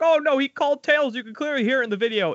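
high, hammed-up panic from the fans; mock panicked fans. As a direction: squeal it like a freaked-out fan, then rush. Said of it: "like, freaking out".

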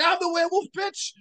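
high, wild taunting voice; crazed villain voice. Retold or imitated. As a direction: taunt like a madman. Voicing crazed Marcus.

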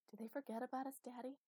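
a hint of a hushed little daughter; child's whisper. A narrator's reading. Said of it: "she whispered".

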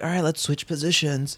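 lightly put-on bossy voice; a hint of a different persona. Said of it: "I don't talk like that".

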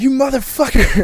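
mock outraged wife. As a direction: imitate her freaking out at him. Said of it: "And she's like".

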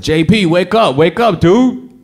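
urgent high shout to a dozing driver; retold panicked yell, loud and high; yelling to wake him. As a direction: shout his name, jolt him awake. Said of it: "And I yelled".

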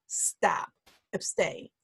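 breathy whisper, low and soft; whispered stop. Shown as a demonstration. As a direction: hush yourself to a stop. Firm self-command to stop.

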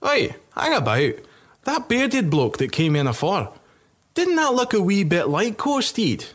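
a tipsy soldier catching on; suspicious drunk soldier. Acted. Soldier spots the king.

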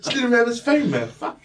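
high, loud yell at the cops; loud mock protest at the cops; retold yelling. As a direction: shout it across the crowd, half laughing. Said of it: "I was like".

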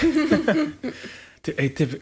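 slow whisper breaking into laughs; whispered intro through giggles; ASMR whisper. Pretend. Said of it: "like, A S M R things".

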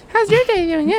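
reversed audio. Shown as a demonstration. Playing reversed filter.

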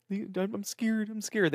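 soft, slow mock-frightened pup; scared dog voice. Owner voicing the dog hiding from neighbors, soft and slow. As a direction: whimper it like a cowering dog. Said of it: "Marshall in the corner".

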